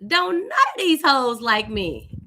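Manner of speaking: slow, amused, laughing through it; laughing thought. Retold or imitated. Teen realizing the church women dislike her, half laughing. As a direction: chuckle out the realization. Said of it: "I thought to myself".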